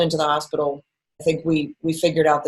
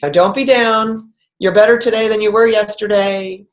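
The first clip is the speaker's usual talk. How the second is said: pesky cheerleader; 3 semitones higher, 4 dB louder than usual. Retold or imitated. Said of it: "an annoying, pesky cheerleader".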